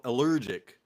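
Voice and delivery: "allergic" in a mimicked funny accent; low, accented "allergic" as an imitation; imitated pronunciation. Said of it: "The way he says al".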